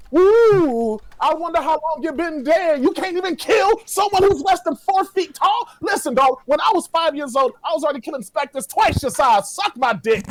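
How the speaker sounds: high-pitched mocking ghost taunt; trash-talk like a brash ghost. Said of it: "you gotta talk like a ghost".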